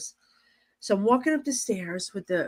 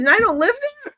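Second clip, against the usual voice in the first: high, loud, disbelieving cry; excited retold disbelief; incredulous; 14 semitones higher, 5 dB louder than usual. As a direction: squeal it like you can't believe your luck. Retold shock at castle offer.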